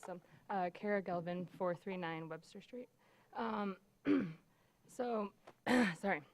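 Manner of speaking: losing her voice, raspy and strained; hoarse voice. Real, not acted. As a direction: speak through a worn-out hoarse throat. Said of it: "Sorry, I'm losing my voice".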